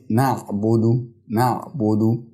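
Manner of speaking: slow "نعبدو", na'-budu; "نعبدو" with a vowelless ayn and u on the ba; still ayn into damma. Shown as a demonstration. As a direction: rest on the ayn of "نعبدو", then round bu. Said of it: "فبنتقل من تسكين حرف العين إلى".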